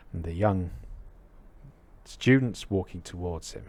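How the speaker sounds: usual speaking voice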